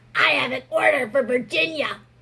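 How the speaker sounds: very bad smoker's voice. Retelling a customer picking up a to-go order, imitating her smoker's voice. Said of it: "she comes in with the worst smoker voice I've ever heard".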